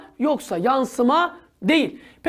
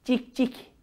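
imitating a bird's cik cik, softly; soft mock birdsong; bird chirp; 6 dB quieter than usual. Shown as a demonstration. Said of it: "Nasıl ötüyor?".

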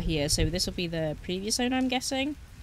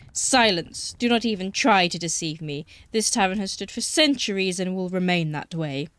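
hissing reptile growl; 4 dB louder than usual. Acted. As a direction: growl out the threat like an ancient guardian. Boggart scolds intruder.

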